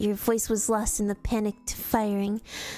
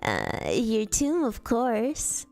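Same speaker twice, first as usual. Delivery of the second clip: put-on slow, drawn-out British accent; drawled in a mock British accent; much slower than usual. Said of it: "I can only do British".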